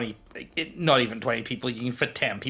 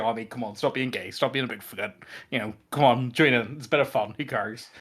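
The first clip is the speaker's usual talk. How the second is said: casual friendly coaxing. Shown as a demonstration. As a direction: brush it off lightly, mildly coaxing. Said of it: "that's the way I would have said it".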